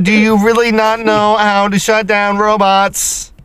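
slow, deliberate robot; lightly mechanical pronouncement. Pretend. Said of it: "You gotta be robotic".

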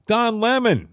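Frenchify "Don Lemon" with a lilt up high; French accent. Shown as a demonstration. Host mocking the name with French flair, French accent. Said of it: "give him a French accent".

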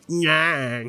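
stuffy-nosed Nah, repeated playfully; sinus-clogged Nah tried over and over; nasal from a cold. Real, not acted. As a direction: toy with a blocked-nose voice. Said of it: "I'm speaking from my nose".

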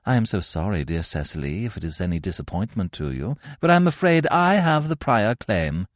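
put-on polite but cutting young lady; prim rival girl. Cecily to Gwendolen, sugary claim to Ernest. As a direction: stake your claim with icy politeness.

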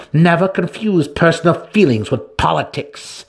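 a warning with real menace; growled threat. A narrator's reading. Matron Santa Fe threatens Alton, a loud growl. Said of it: "the tiny but obviously strong matron growled".

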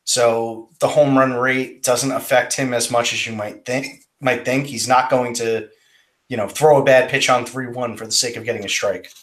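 talking through hiccups; hiccuping between words. Real, not acted. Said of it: "You got the hiccups over there?".

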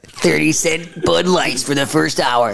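lightly voiced rally announcer; monster truck ad. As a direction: hype the rally like a radio ad. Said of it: "commentating Monster Truck Rally".

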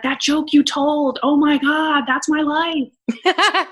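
slow, breathless gushing with a laugh at the end; drawn-out starstruck gush; gushing fan. Retold or imitated. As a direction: play a fan overwhelmed that the joke was about her life. Fans gushing after her show.

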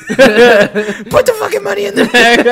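high, loud, slow outlaw yell; bank robber. Pretend. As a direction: bark it like a cartoon robber.

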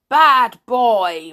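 loud furious roar; angry teacher roaring at Peter. Acted. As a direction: bellow at the boy. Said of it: "roared Mister Grimm".

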